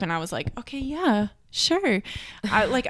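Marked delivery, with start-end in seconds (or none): 0.6-2.0 eager agreement. Retold or imitated. Past self eagerly agrees.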